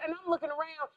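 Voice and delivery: ordinary delivery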